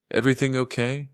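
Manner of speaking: eager, airless high voice; breathless, high-pitched. A narrator's reading. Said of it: "Mark's voice was breathless, high-pitched".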